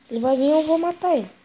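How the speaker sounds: loud, fast, eager threat; pumped up to fight; excited threat. Real, not acted. Gamer hyping up to kill enemy.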